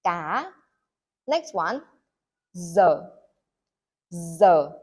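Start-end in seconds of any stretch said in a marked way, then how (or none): 2.5-4.7 giờ said clearly and louder, low falling tone; teacher saying giờ. Shown as a demonstration. Teacher models giờ for English-speaking students, loud and clear. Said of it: "In the north, we say giờ".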